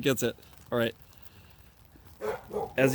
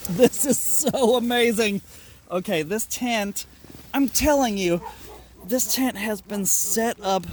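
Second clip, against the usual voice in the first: higher, louder delight; excited; 4 semitones higher, 3 dB louder than usual. Real, not acted. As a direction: rave about it. Thrilled about dry tent.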